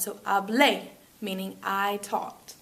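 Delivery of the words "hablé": "hablé" stressed on the closing é; stress on final syllable. Shown as a demonstration. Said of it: "we've gotta stress that syllable".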